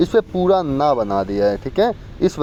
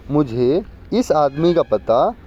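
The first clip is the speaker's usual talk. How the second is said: slow dictation; slower than usual. Shown as a demonstration. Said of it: "इसमें क्या त्रुटि है".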